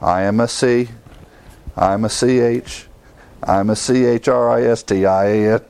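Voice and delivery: spelling out letter by letter, halting; spelling it out reluctantly. Retold or imitated. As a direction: spell it grudgingly. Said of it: "like he finally says".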